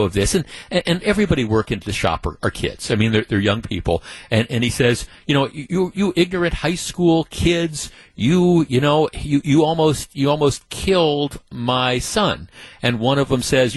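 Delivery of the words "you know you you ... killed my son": higher, sputtering retold rant; mock furious yell. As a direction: stammer out the angry dad's outburst. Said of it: "he starts screaming".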